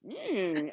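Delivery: drawn-out approving hum; reenacted pleased hum. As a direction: imitate someone liking what they smell. Acting out customer's reaction to smell.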